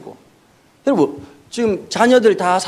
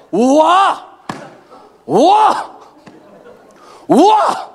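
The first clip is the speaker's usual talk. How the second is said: higher, louder hammed-up wow; exaggerated praise; 5 semitones higher, 3 dB louder, much slower than usual. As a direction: gush over the haircut. Pastor praising girl's haircut.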